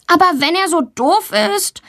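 put-on high, indignant child protesting; a girl defending herself; defensive. Girl Valentina defends herself to teacher, indignant. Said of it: "verteidigt sie sich".

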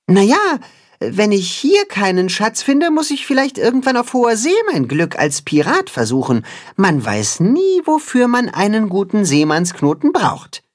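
Max musing. Acted. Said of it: "gibt Max zu bedenken".

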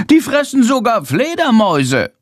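a bat drawing itself up to declare; indignant bat proclaiming its worth. Acted. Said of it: "mit erhobener Stimme".

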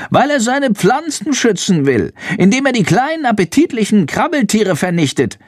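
high-pitched little bat voice; bat character. A narrator's reading. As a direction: speak far up high as a small bat. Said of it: "raunt Shandor". (hohe Fledermausstimme)

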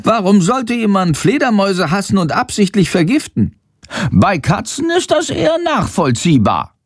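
indignant bat. A narrator's reading. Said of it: "Er ist empört".

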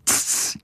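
soft dismissive tongue hiss; scoffing tss. A narrator's reading. Bat dismisses the boy's worry, soft scoff. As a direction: brush it off with a quiet tss.

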